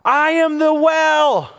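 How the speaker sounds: slow, ringing declaration; proclaiming as Jesus. Acted. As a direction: proclaim each word with weight. Jesus reveals himself, preacher proclaims.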